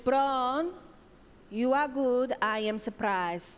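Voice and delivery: put-on lightly done Polish accent, slowing at the end. Comedian voicing mother-in-law's grudging praise, mild Polish accent. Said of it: "and I'm gonna do the accent".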